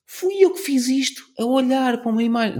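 high, proud exclaim. Retold or imitated. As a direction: marvel at your own work. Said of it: "eu olho para isto e digo assim".

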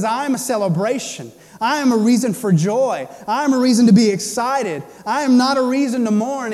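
rising, emphatic celebration; joyful declaration. Retold or imitated. Jesus declaring himself a wedding feast, excited and emphatic. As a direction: proclaim it with building excitement.

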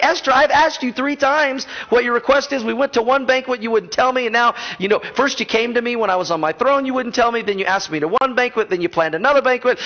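a king complaining to his wife; frustrated king. Retold or imitated. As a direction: list her delays like a fed-up husband. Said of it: "the king's kind of frustrated with his wife".

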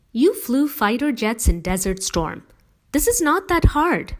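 lightly voiced earnest mother; firm, heartfelt mother pleading; mother's voice. A narrator's reading. Mom's voice again.

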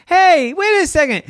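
high, loud startled pig; Dora surprised. Acted. Dora noticing nobody laughs, high and startled. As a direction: cut in startled.

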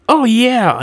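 high, loud little alien squeak; high-pitched grunt chirp; quirping grunt. A narrator's reading. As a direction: pipe up as an excited small creature. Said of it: "another grunt quirped".

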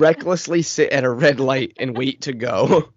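slow, sarcastic scolding; mock indignation. Friend mocking mom's blame of dad, mock indignant. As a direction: scold in pretend outrage, drawing it out.

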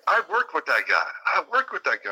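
high, hammed-up Southern insistence; the speaker's Southern accent. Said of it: "super Southern accent".

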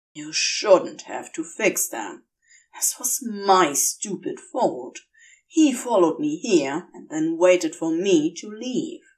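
a demon blaming himself, low-key; Crowley, self-blaming. Acted.

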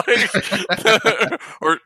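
breaking into laughter mid-sentence; real laughter spilling over; laughing while talking. Real, not acted. Cracking up retelling scene.

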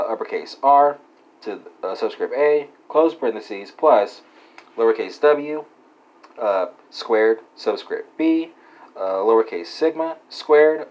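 slow, deliberate formula dictation; dictating. Acted. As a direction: spell out each symbol carefully. Reads formula out symbol by symbol.

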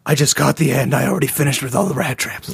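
a hint of a fawning assistant; lightly played eager assistant; lightly voiced Emma Stone. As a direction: sweet-talk the boss lightly. Emma Stone answers Richard.

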